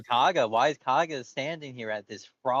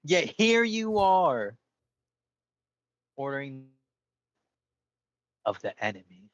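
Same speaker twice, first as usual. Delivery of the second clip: dramatic. Acted. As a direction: draw it out like a betrayed hero. Dramatic character accusation.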